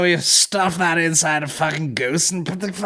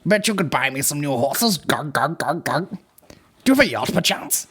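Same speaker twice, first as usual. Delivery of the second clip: put-on horsey rich girl; 4 semitones lower than usual. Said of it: "such a fucking horsey rich bitch".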